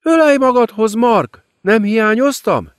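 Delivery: high, silky demon queen mocking her victim; gloating demoness.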